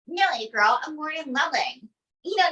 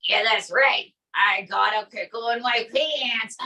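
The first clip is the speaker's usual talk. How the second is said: Trump impression; 3 semitones lower than usual. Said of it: "Donald J Trump".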